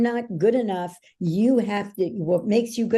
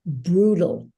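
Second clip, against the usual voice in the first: grim reply; 3 dB louder than usual. Retold or imitated. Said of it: "he looks at me and he goes".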